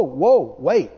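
normal talking voice

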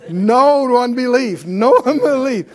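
loud, high rebuke of unbelief; hollering. Retold or imitated. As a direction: holler it out like a preacher calling the flock back. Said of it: "you'll hear me hollering at you".

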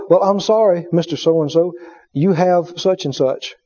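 low, soft doctor delivering bad news; somber doctor. Doctor telling a patient the diagnosis, low and soft. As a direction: break the news gravely.

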